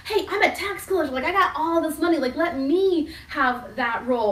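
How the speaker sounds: bragging Matthew. Retold or imitated. Matthew bragging about his money to get the role. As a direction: sell yourself like a pushy tax collector. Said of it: "Matthew would have been like".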